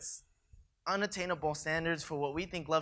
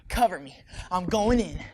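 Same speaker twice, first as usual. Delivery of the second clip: cover me shout; 5 dB louder than usual. Acted. Acted battle scene.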